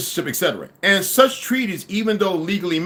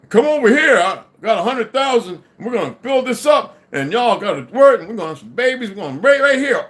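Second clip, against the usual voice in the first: higher, louder hyped-up recruiter call; mock hype pitch; 6 semitones higher, 4 dB louder than usual. Hyping up the crowd to join the land, higher and louder. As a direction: sell the land dream like a fired-up leader.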